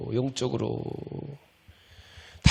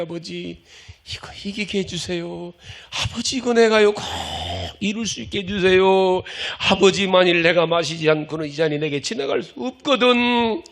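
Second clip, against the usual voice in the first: crying out prayer; 3 semitones higher than usual. Retold or imitated. Jesus crying out in Gethsemane, anguished plea. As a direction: cry out to the Father in anguish. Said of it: "울부짖는 거예요".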